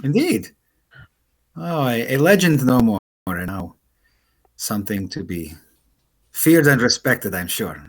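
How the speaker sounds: lightly voiced, measured crewmate; Astra. Crewmate acknowledging the reinstated War Guild, lightly voiced, measured. Game master plays Astra.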